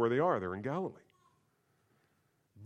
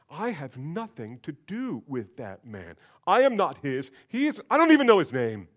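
frantic denial; 4 dB louder than usual. Acted. Peter denying Jesus.

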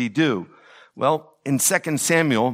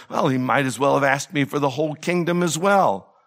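understated sarcasm in an acted quote; a touch of dry sarcasm; mildly sarcastic; faster than usual. Solomon scoffs to his mother at the request, mildly sarcastic. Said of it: "sarcastically, Solomon says to his mother".

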